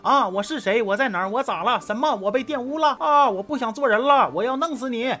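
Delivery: hammed-up panic rising to a threat; bewildered then frantic. 可云 wakes up bewildered, then outraged. (从迷糊到抓狂，声调越来越高)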